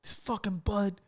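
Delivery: mock gossip, half laughing; lightly put-on complaining voice; a touch of laughter in the imitation; mocking white guy. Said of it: "they're like".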